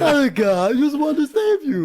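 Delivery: high, loud hammed-up lisp; mock a father with a lisp; lisping king voice. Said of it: "sounds like he just has a lisp".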